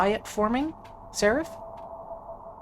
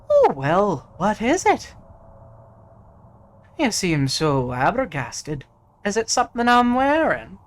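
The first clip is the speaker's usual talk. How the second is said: high, loud, mocking lord; smug noble voice; 6 semitones higher, 6 dB louder than usual. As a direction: play the vain hero, feigning innocence. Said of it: "he says".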